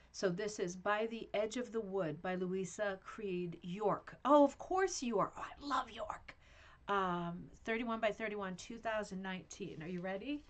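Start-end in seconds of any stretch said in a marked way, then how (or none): 4.3-6.3 fond whisper. Real, not acted. Whispering fondly over the rug.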